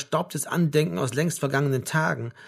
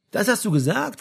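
high, louder amused disbelief; 9 semitones higher, 5 dB louder than usual. A narrator's reading. Son teasing his father about the claim, amused. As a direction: ask with amused incredulity. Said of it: "fragte Frank belustigt".

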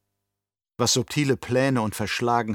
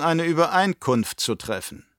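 Baron's offer; 7 semitones higher than usual. Acted. Baron proposing a deal to his nephew, sly and raised. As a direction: offer "Übereinkunft" like a sly bargain, pitched up.

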